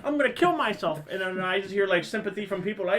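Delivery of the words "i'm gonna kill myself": high, loud ranting reply; fed up, blurt it out; exasperated outburst. Retold or imitated. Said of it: "I'm like".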